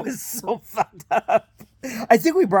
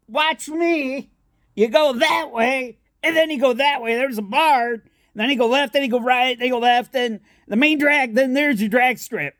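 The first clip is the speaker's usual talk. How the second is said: raised-pitch voice of a deaf local giving directions; hard-of-hearing yelling guy; 4 semitones higher than usual. Retold or imitated. Deaf stranger explaining the way to dad, high mock holler. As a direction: holler the route, imitating a deaf man. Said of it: "this guy's yelling at him 'cause we think he's".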